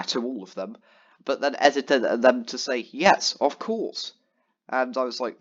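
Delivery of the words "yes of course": drawn-out, slow sarcastic yes; mock polite reply, said very slowly. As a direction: stretch it out as if mocking the edited reply. Mock edited reply in chat.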